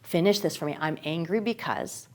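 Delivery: put-on a parent calmly coaching an angry child; gentle coaxing. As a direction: soothe an upset child. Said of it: "that child tells you".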